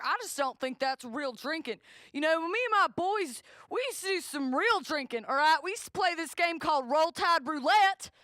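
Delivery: put-on loud, swaggering good-old-boy brag; boastful Southern guy. Guy bragging about drinking games to her, loud swagger. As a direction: brag like a redneck recalling glory days.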